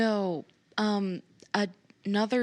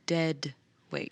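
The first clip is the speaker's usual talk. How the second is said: whisper; 2 semitones lower than usual. Real, not acted. Player repeating the joke.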